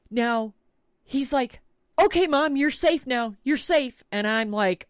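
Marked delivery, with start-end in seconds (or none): 2.0-4.0 higher, louder imitation of her son; quick mock reassurance, pitched up; son reassuring mom. Imitating teenage son telling his mother she's safe, urgent reassurance.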